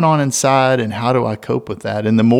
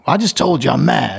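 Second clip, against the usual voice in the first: put-on annoyed kid; 4 semitones higher than usual. Kid voiced in parenting story.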